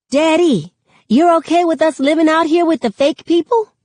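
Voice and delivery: put-on high, loud little-kid voice asking Daddy; a small boy blurting out something he overheard. Sakani questioning Daddy about the suburbs, high loud child voice.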